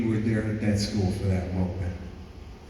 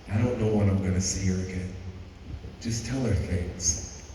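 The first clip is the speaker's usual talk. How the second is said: put-on sad girl. Girl tells sad story.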